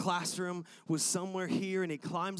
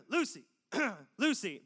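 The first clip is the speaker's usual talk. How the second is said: casual, lower-pitched call of a name; 3 semitones higher, 5 dB louder than usual. Shown as a demonstration. Calling his daughter in the park, low and casual. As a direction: call Lucy low and easy so no one panics. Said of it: "you gotta go lower".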